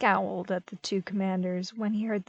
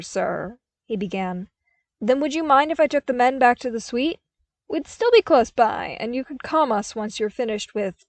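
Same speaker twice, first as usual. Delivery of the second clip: uneasy request; 8 dB louder than usual. A narrator's reading. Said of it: "he finished uneasily".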